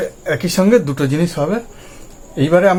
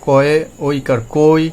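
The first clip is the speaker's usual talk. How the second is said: slow spelling out; slower than usual. Shown as a demonstration. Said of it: "এটা কই".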